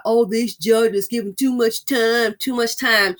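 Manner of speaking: slow, sneering imitation of complaining men; lightly voiced mock complaint about too much time; mocking whine. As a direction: mimic their griping, drawn out. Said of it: "they wanna always talk about".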